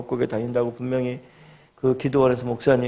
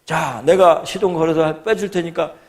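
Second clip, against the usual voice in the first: take-charge instructions, raised in pitch and volume; calling out loudly; 4 semitones higher, 6 dB louder than usual. Retold or imitated. Truck driver directing the stranded youth, calling out loudly. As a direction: imitate a helper shouting directions. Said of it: "막 큰 소리 치더니".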